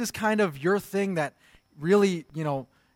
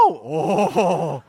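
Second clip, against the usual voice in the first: retold angry gasp; 2 semitones higher, 6 dB louder than usual. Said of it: "I got so angry".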